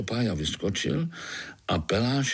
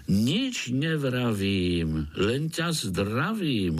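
slow, jolly Slovak rhyme; a mosquito greeting in Slovak; cheerful Slovak; much slower than usual. Acted. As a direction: savour the Slovak words, merrily. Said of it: "odpověděl vesele komár".

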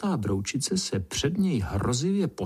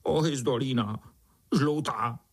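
plaintive. Acted. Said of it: "žalostná odpověď".

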